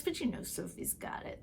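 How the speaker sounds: hushed, knowing whisper; whispered aside. Real, not acted. Telling viewers Sophie will get the job, whispered. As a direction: whisper it like a secret.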